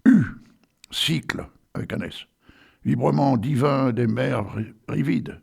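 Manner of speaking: solemn poetry recitation; poem recital. Acted. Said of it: "Alors, j'y vais, attention".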